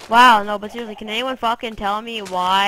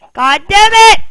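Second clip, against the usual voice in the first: higher, loud curse; angry curse; 9 semitones higher, 14 dB louder than usual. Real, not acted. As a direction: spit it out in frustration. Frustration at game.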